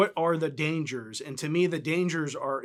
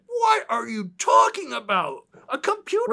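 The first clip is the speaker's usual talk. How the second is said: put-on old-timey voice; 7 semitones higher, 5 dB louder than usual. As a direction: squawk it like a baffled old-timer from the 1900s. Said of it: "I'm doing that old-timey voice".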